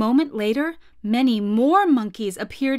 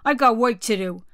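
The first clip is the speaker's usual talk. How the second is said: gruff gorilla; 5 dB louder than usual. Acted. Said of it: "said the gorilla".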